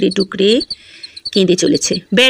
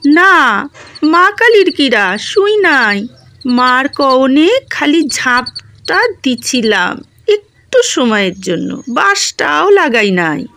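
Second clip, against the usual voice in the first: tearful denial; 4 semitones higher, slower than usual. Acted. Wife pleading innocence, tearful.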